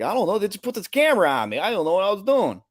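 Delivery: high, fast mock-confused voice; high, quick, flustered mock voice; imitating a flustered guy. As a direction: play the bewildered guy caught on camera. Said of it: "he's like".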